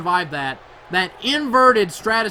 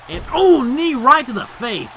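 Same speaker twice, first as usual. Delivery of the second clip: loud, much higher, slow outburst; excited yell; 7 semitones higher, 9 dB louder, slower than usual. Real, not acted. Commentator yelling at the knee to the face. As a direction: cry out as the knee lands.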